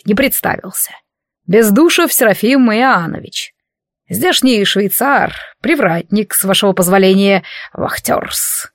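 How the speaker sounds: lightly voiced old doorman; a hint of an old-fashioned servant; old prospector. Old doorman introduces himself. (старый привратник, слегка стилизованно)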